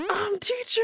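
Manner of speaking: very high, loud mock classroom call; loudly projected. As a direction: imitate a pupil projecting at the teacher. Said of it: "he just projected really loudly".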